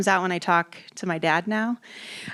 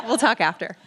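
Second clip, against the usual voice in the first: laughing; 6 semitones higher than usual. Real, not acted. Laughs at the casting offer.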